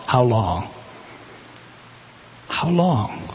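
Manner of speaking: anguished plea. Acted. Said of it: "Here it is Christ saying to the Father".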